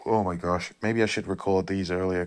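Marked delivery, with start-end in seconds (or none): 0.0-0.7 sighing out of a yawn; mid-yawn exclamation. Real, not acted. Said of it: "I cannot stop yawning".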